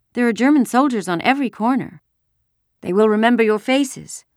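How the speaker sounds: high, insistent woman's warning; urgent mother. A narrator's reading. Ellen's mother warns the girls about soldiers, urgently. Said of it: "Missus Rosen said".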